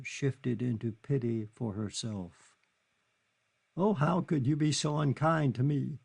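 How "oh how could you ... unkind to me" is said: higher, tearful reproach; sobbing. Acted. Kitty sobbing her reproach at Charlie. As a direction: sob out the reproach. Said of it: "she sobbed".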